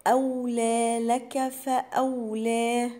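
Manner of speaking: slow, measured recitation of أولى لك فأولى; Quran recitation. Shown as a demonstration. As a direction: recite each letter with its full length. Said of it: "أهم حاجة في القرآن إن أنا أدي كل حرف حقه". (تلاوة مرتلة ببطء)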